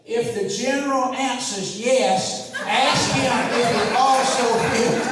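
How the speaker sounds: put-on slow old senator voice, laughing through it; lightly voiced elderly senator, amused; mock doddering senator reading his notes; Thurmond impression. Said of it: "looked back at his notes and said".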